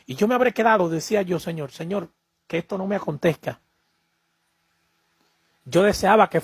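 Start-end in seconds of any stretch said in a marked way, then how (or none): 1.4-3.6 hushed frightened plea. Retold or imitated. Pleading prayer in fear.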